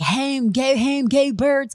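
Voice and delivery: attempted Philadelphia accent. Mocking typical Phillies fans before the Eagles opener, in an attempted Philly accent. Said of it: "with the Philly accent".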